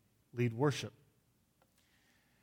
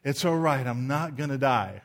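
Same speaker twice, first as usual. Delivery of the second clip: relieved self-talk; 5 dB louder than usual. Retold or imitated. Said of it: "you wake up and you go".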